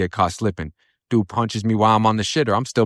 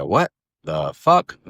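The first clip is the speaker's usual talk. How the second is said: drawn-out disbelief, rising sharply at the end; incredulous; much slower than usual. Retold or imitated. Defendant reacting to his lawyer's eighteen-year offer, incredulous. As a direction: stretch it out slowly, stunned, with a rising pitch.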